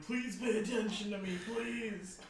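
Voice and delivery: pleading voice. Retold or imitated. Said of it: "Someone's like".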